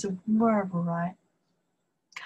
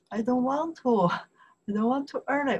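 higher-pitched mock complaint; acted reluctance; 4 semitones higher, faster than usual. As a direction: playfully protest in a raised voice. Acts out reluctant early riser.

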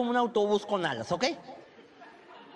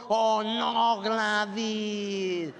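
skinny friend's reply; much slower than usual. Retold or imitated. Friend Gladys answering the complainer, drawn-out "oh no". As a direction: sigh it like a loyal sidekick.

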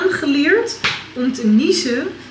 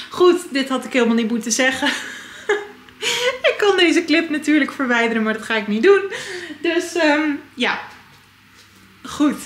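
laughing; 5 semitones higher than usual. Real, not acted. Embarrassed about revealing too much.

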